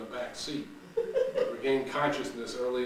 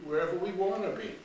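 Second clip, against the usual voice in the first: Shirley's eager line; 7 semitones higher, faster than usual. Acted. Shirley's first take.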